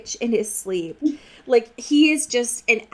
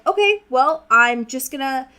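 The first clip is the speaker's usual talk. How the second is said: raised, breezy mock determination; mock Bella, higher; 4 semitones higher than usual. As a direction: play Bella as oblivious and chipper. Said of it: "she's still like".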